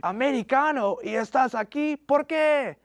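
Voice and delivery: surprised Spanish question. Retold or imitated.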